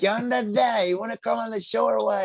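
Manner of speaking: high, quick impression of his invitation; playful high-voiced imitation of a friend; imitating the host. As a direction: pitch it way up like his greeting. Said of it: "that's the way he talks".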